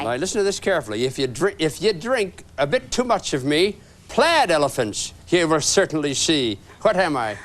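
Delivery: put-on fast light Irish accent. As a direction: rattle it off in an Irish brogue. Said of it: "and I'm doing an Irish accent".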